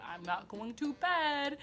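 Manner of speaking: high, slow mock-whiny refusal; stubborn defiance. Teen refusing woken relatives' order, stubborn defiance. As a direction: dig in, dragging out every word.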